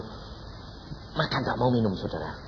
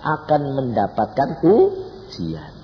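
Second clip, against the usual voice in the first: high, loud preaching cry easing off at the end; shouted proclamation; 5 dB louder, slower than usual. Real, not acted. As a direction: thunder it out slowly to the congregation, then come down. Preacher proclaims to congregation at full force. (seruan khotbah lantang bernada tinggi)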